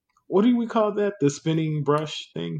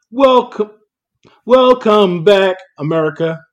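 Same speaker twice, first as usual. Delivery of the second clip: loud, high show-host welcome; announcer voice; 6 semitones higher, 9 dB louder than usual. Pretend. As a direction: boom it out like a radio host. Podcast host welcome after break.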